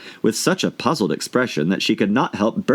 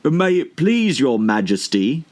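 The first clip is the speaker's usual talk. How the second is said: higher, slow, deferential plea; humble gardener; 6 semitones higher, slower than usual. A narrator's reading. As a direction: beg the queen meekly on one knee. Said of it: "in a very humble tone".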